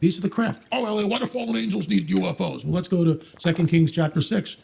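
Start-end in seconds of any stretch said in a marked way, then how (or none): 0.7-2.6 higher-pitched mimicked objection; put-on skeptic voice, raised; mocking skeptic. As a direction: parrot a doubter's silly question.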